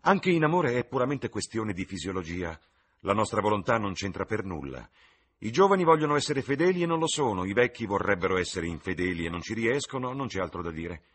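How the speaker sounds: high, emphatic, opinionated lord; witty lord holding forth. Acted. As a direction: declaim your paradoxes with assurance.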